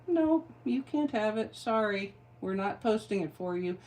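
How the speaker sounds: lightly voiced dismissive app, high start; mock Instagram refusal. Instagram refusing to post her reel, mock dismissive. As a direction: breezily turn someone down, imitating an app. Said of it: "and Instagram said".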